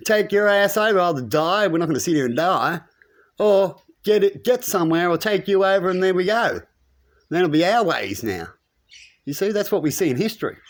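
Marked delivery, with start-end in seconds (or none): 0.1-8.5 fierce war cry. Retold or imitated. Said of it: "They go".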